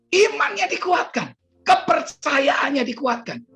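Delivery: high-pitched preaching burst; emphatic proclamation. Real, not acted. Preacher declaring the man's faith strengthened, high emphatic proclamation.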